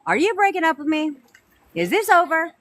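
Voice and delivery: put-on frantic girlfriend asking if it's over; anxious pleading. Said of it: "A lot of you will ask them".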